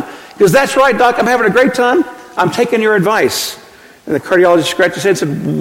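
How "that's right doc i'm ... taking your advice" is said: put-on cheerful old patient. Patient voiced in told joke.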